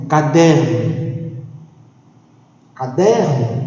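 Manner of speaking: "Caderno" slowly, leaning on DER; stressed syllable shown. Shown as a demonstration. Teacher searching for the tonic syllable, stressing DER in "Caderno". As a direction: stretch the middle syllable of "Caderno". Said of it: "soletrar com mais calma para encontrarmos a sílaba tônica".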